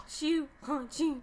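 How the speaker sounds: imitating a cartoon snore; mock snore sound; snoring noise. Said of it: "she gets that snore".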